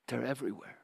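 quiet, hushed retelling of her whisper; mock hushed confidence; retold whisper. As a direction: drop the voice as if whispering in an ear. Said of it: "she whispered in my ear".

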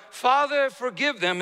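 high cry on the first word, then easing; impassioned quoted plea; retold cry. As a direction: call out to the Father, then let it drop. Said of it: "he cried out".

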